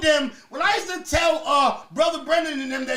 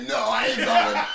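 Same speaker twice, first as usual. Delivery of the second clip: mock defiant yell; 5 dB louder than usual. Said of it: "I was like".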